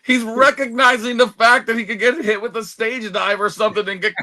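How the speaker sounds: put-on reliving how thrilled he was as a kid; excited kid fan. Recalling his childhood reaction to the promo, excited.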